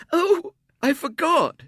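high, loud, slow gasp of realisation; light up with a sudden thought; delighted little girl. A narrator's reading. Girl remembering the costume, high delighted cry. Girl's tears cease, eyes shine.

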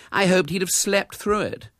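high, put-out complaint; sighing sisterly annoyance; exasperated groan. A narrator's reading. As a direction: groan about a pesky brother. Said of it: "Ethel groaned as William entered".

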